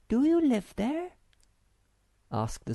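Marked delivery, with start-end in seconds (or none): 0.1-1.1 put-on high, eager girlish voice of the Snork Maiden; a bright young girl asking eagerly.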